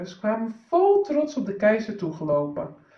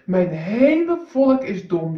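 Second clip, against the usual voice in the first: emperor's proud thought; 4 dB louder than usual. Acted. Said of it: "dacht hij".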